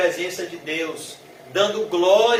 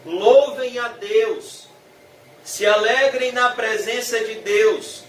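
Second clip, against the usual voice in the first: slow, mildly exclaimed call to worship; exclaiming; 3 semitones higher than usual. Acted. Voice from the throne summons God's servants to praise, exclaiming. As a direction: proclaim it, drawing the words out slightly. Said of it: "essa voz do trono exclama e diz".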